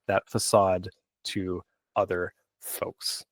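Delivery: slow hushed whisper. Real, not acted. Aside about hiding true self.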